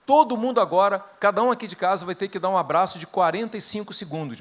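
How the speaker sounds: put-on retelling a nine-year-old's loud order; mock decree. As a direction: bellow the household rule like a boy laying down law. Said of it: "baixou um decreto".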